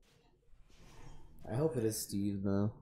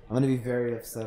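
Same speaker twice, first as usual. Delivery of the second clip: whiny entitled fan; 7 dB louder than usual. Pretend. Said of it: "Do I sound like a whiny privileged person?".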